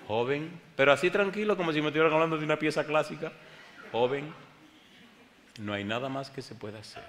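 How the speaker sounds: mock the doctors' cool bedside manner. Preacher mocking his doctors' calm verdict, hammed-up.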